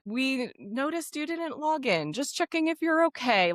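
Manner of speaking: mild mock-gentle reminder; soft language. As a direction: read the email as if tiptoeing around them. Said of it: "Like, really soft language".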